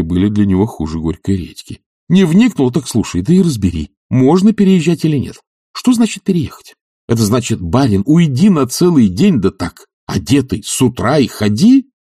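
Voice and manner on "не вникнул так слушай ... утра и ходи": much higher, louder exasperated demand; indignant demand. Acted. Oblomov demanding an answer from Zakhar, loudly. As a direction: press him for an answer in outrage.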